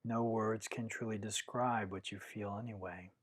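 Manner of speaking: calm, measured meditation guidance with long pauses; guided meditation. Acted. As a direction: guide listeners inward, one unhurried phrase at a time.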